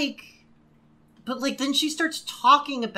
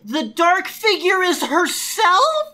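higher, louder, slow mock revelation; mock dramatic; 9 semitones higher, 7 dB louder, slower than usual. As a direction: play up a cheesy twist.

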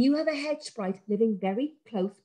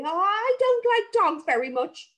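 higher, slow, slightly timid sprite; 9 semitones higher than usual. Acted. Mister Brambles telling the children he fears dogs. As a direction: admit it shyly.

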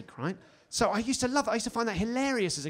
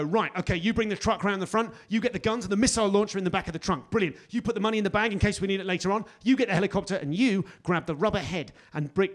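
action hero briefing; faster than usual. Retold or imitated. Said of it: "Tom Cruise mid-action movie go".

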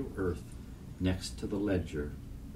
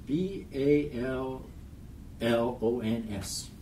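put-on child speller; 5 semitones higher, slower than usual.

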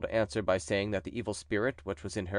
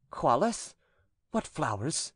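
stern, higher priest voice; exorcist priest; 5 semitones higher, slower than usual. A narrator's reading. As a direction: question the demon with solemn authority. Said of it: "he asked the following questions".

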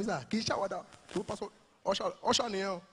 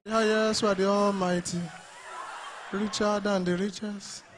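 gentle pastor worship; 4 dB quieter than usual. Retold or imitated. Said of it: "this is what you begin to hear".

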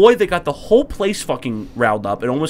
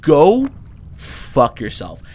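mock-furious, deliberate dismissal; going in on them; much slower than usual. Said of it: "he goes in on them".

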